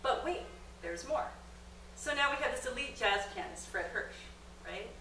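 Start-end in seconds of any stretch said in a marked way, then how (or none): 0.0-1.3 infomercial catchphrase. Pretend. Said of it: "think about story that way".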